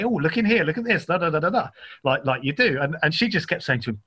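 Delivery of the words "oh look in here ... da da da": a hint of a man rattling on as he rummages; distracted man. Teller imitating Jeff poking round the cupboards, lightly distracted. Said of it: "and he'd say".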